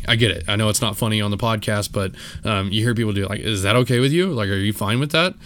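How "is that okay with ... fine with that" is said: giving attitude. Retold or imitated. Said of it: "giving her attitude".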